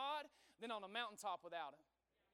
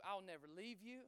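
tender voice of God; 3 semitones lower than usual. Acted. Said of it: "what does he say to you".

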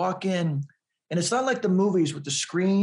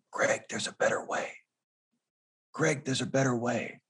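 lower, softer mysterious voice from the corner; Morgan Freeman; 5 semitones lower, 5 dB quieter than usual. Retold or imitated. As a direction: lightly imitate a deep, hushed movie voice. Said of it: "Morgan Freeman in Shawshank Redemption".

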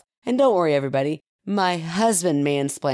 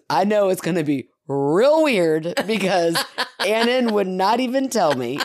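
laughing; 3 semitones higher than usual. Retold or imitated. Excited kid quote, laughing.

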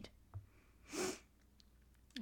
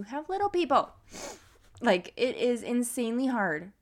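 fighting back tears while talking; holding back tears; 3 semitones higher, 5 dB louder than usual. Real, not acted. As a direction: voice close to crying, holding back. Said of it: "I'm trying not to cry".

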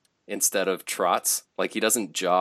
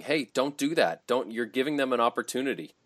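retold screaming; 4 semitones higher than usual. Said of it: "screaming, like, effectively screaming".

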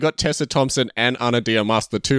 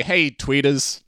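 sultry perfume ad; 3 semitones higher, much slower than usual. Pretend. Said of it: "in her sultry voice".

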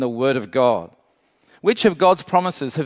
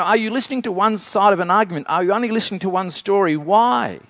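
mildly frustrated, higher, fast questions; frustrated questioning; 4 semitones higher, faster than usual. Acted. Preacher voicing Isaiah's frustration at one-sided listening, frustrated. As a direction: press them with a touch of frustration. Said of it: "it's like his frustration".

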